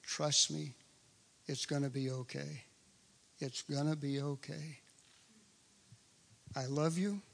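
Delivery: the Lord gently comforting a worried believer. Retold or imitated. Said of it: "I hear the Lord saying to me".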